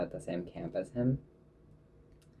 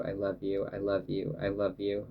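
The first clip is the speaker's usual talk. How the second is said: sleepy, yawning as you speak; words stretched by a yawn; 5 dB quieter than usual. Real, not acted. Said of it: "I am yawning".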